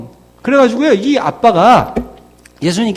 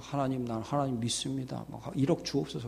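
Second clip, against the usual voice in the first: mock prayer; 11 semitones lower, 18 dB quieter than usual. Mocking a greedy prayer.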